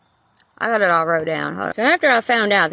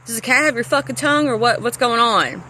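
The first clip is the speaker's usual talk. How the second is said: retold angry rant; 3 semitones higher than usual. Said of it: "I'd get really fucking pissed off".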